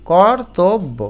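কর্তব্য broken as "kor... tob... bo"; syllable by syllable. Shown as a demonstration. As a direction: separate each syllable of কর্তব্য. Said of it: "এটা কর্তব্য". (কর্তব্য, ভেঙে ভেঙে)

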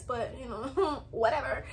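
slow, laughing shrug of a line. Real, not acted. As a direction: laugh at your own joke. Laughs off tiny ad income.

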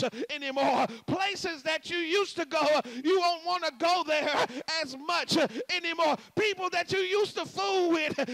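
very loud, driving sermon rhythm; climactic preaching. Acted. Preacher promising change to the church, loud preaching. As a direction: preach it over the music at full force.

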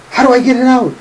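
high-pitched mock-panicked holler; retold loud demand. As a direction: imitate an upset wife calling out for help, high.

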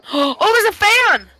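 delighted gasp at a find; surprised and slow, drawn out; gasping surprise. Real, not acted. Gasps finding a fan.

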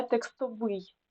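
текстовий stressed on the final ВИЙ; stress on last syllable. Shown as a demonstration. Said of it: "наголоси можуть часто змінюватися".

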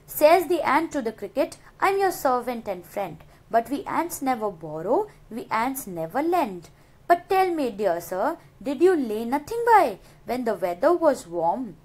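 measured, sing-song reading of verse; poem recitation. Acted. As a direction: recite the stanza with rhythm. Reads the poem stanza aloud.

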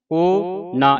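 ਕੋ ਨਾ as two distinct words; separate words. Shown as a demonstration. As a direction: keep ਕੋ apart from ਨਾ, each given its own beat. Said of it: "ਇਹ ਵੱਖਰਾ ਵੱਖਰਾ ਹੈ". (ਕੋ ਨਾ ਵੱਖਰਾ-ਵੱਖਰਾ ਕਰਕੇ)

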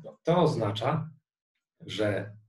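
ordinary talk, nothing marked

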